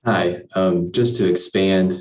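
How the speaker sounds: echoey room. Real, not acted. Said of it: "sorry, it's echoey in here".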